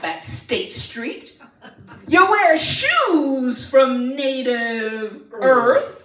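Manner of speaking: slow, weighty telling-off; slow scolding put-down. Acted. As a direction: lay each insult out slowly. Princess telling Ron off.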